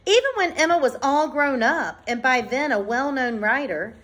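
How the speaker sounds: measured, clearly phrased picture-book read-aloud; reading to children. Acted. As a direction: read it out to a class, pausing between phrases. Reads picture book to class.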